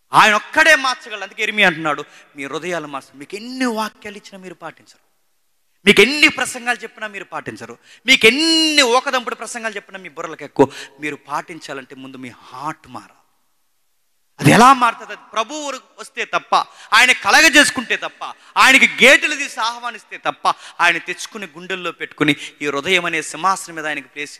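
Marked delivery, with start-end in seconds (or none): 0.1-10.7 high, loud, emphatic sermon delivery; impassioned preaching. Real, not acted. Preaches at full force. 14.4-24.4 high, loud, emphatic sermon delivery; impassioned preaching. Real, not acted. Preaches at full force.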